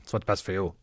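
put-on a light McGoohan accent, clipped British actor style; McGoohan impression. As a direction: do a lightly voiced Patrick McGoohan lecture. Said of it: "That's a perfect accent, Chris".

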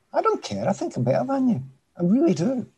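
high, defiant boast; cocky defiance. Real, not acted. Defiant boast about beating anyone.

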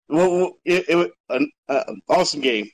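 halting stutter from excitement. Real, not acted. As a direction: stumble over the words. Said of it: "Sorry, I'm stuttering".

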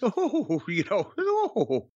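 mock prim, drawn-out oohs; slow, fluttery mock-genteel voice; prissy woman. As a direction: imitate a stuck-up lady cooing. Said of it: "large stick shoved up her ass".

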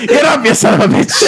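mock trainer urging a fighter up through laughter; Mickey from Rocky. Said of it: "sound like Mickey from Rocky".

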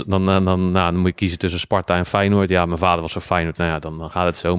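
licht Rotterdams accent. Real, not acted. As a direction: praat ineens wat Rotterdamser over Feyenoord. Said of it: "Je gaat ook acuut meer Rotterdams praten". (met een Rotterdams accent)

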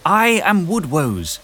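high, loud, slow proclamation; heroic shout. Acted. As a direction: call it out to the whole village, slow and high. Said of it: "walked through the village shouting her intentions".

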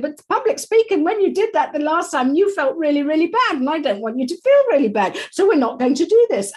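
Moaning Myrtle voice. Retold or imitated. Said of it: "Moaning Myrtle's sitting there going".

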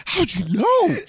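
laughing reply. Retold or imitated. Wife answering the mom, laughing high. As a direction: giggle it out.

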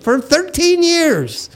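high mock accusation; laughing tease. Real, not acted. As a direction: needle him, laughing. Teasing friend back.

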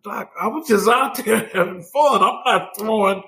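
high-pitched defensive protest with a laugh; protesting youngster. Retold or imitated. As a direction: act out pleading innocence to the doctor. Protesting to the scolding doctor.

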